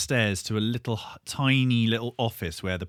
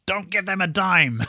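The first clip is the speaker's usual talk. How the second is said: blunt refusal; 9 semitones higher than usual. Retold or imitated. Agent's blunt reply, quoted.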